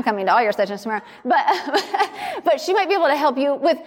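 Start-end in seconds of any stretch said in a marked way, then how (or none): 1.5-2.4 short laugh. Real, not acted. Joke aimed at Maria.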